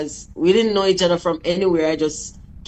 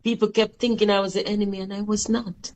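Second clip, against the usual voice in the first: real hurt, softer voice; choked up; 2 semitones higher, 5 dB quieter than usual. Real, not acted. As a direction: hold back emotion while protesting innocence. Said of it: "I'm still choked up about it".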